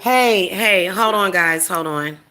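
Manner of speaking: real urgent call to hold on. Real, not acted. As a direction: halt the room, hey hey. Interrupting stream to call out.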